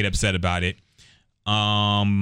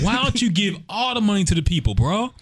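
higher stoner voice; 7 semitones higher than usual. Retold or imitated. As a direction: ask it like a dreamy stoner. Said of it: "mocking a rapper's plans".

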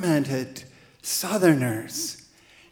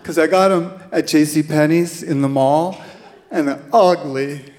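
put-on louder girlish complaint; tripping teen girl; 4 dB louder than usual. Stoned girl explaining her shoes to the volunteer, louder. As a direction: whine about the ugly mall shoes. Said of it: "And she said".

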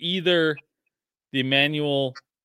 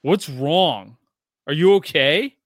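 put-on worried little kid; 2 semitones higher, 7 dB louder, slower than usual. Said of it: "and is like".

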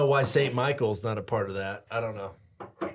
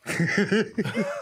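choking; 5 semitones higher than usual. Real, not acted. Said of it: "Oh, you choking?".

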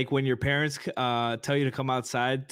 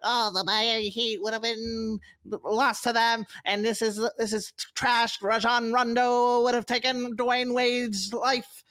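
higher, slower hammed-up Boston accent; 9 semitones higher, slower than usual. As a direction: play a mouthy Boston fan in a Boston accent. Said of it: "This is my Boston impression".

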